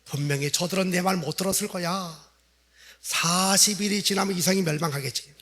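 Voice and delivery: saying it privately to oneself; casual self-assured musing, not projected; inner thought. Acted. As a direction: think it aloud to yourself. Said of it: "속으로 뭐라 그러죠".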